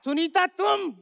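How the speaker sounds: high, panicked comic astonishment; hammed-up horror at being caught; shocked recognition. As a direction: caught out, voice jumping up. Husband suddenly finds his wife there.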